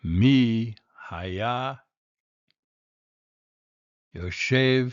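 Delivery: a hint of a mother bear calling; קול גדול של אמא דובה; big Mama Bear voice. A narrator's reading. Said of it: "בקולה הגדול".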